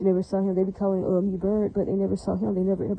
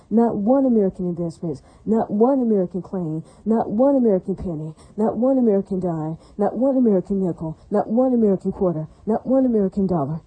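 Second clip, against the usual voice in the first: louder, punching every ONE in a hammering list; emphatic angry list; 4 dB louder than usual. Real, not acted. Ranting at racists she says invested nothing, loud and emphatic. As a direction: pound out each not one like a fist on the table.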